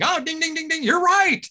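high sing-song ding ding; high mock game show ding; game show bell. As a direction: chime it out like the showcase reveal.

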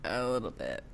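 low, very soft reply; deep test voice. Pretend. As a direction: answer from the bottom of your range.

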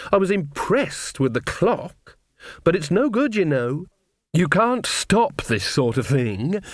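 measured and knowing, lifted well above narration; haughty Lily. Acted. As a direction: play an assured witch lecturing her rival. Villain Lily's dialogue, performed.

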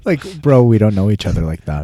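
loud mock brush-off; Davante. Davante to Rodgers, we don't know each other, mock-offended. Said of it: "'cause he calls him Tay".

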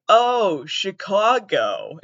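drawn-out "Oh, Chicago" with an open AH in the middle; imitated Chicago pronunciation. Trivia players finally get the word, drawn-out mimicked "Chicago". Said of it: "and they were like".

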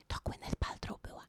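hushed, voiceless side note; whispered aside. Real, not acted. Whispered aside to viewers naming the celebrity.

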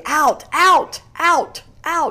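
high, loud commands at the dog; yelling across the room. Retold or imitated. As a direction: bark it out to shoo the dog. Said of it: "Mine is constantly".

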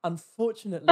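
lightly posh, insincerely polite; really posh. Retold or imitated. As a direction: put on a posh shop-assistant voice. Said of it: "I went really posh".

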